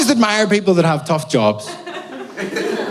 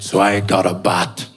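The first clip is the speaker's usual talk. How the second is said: much lower, grave movie-star voice; Liam Neeson; 9 semitones lower than usual. Retold or imitated. Actor confessing a story in a TV interview, low impression. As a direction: tell it low and grim. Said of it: "in his very Liam Neeson way".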